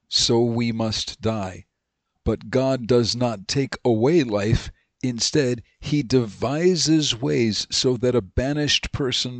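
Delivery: slow, measured reading of a Bible verse; scripture reading. Acted. Teacher reading scripture to the class, slow and measured. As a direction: read the verse slowly and deliberately. Reads Second Samuel aloud.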